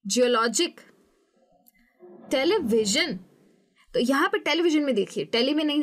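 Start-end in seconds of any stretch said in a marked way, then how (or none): 0.0-0.8 "जियोलॉजिक" with LOJ stressed; second-last syllable of "जियोलॉजिक" brought out; penultimate stress. Shown as a demonstration. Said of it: "penultimate syllable पे". 2.3-3.2 "टेलीविजन" with VI lifted and punched; teleVIsion, stressed on VI. Shown as a demonstration. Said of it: "वी में हमको करना है stress".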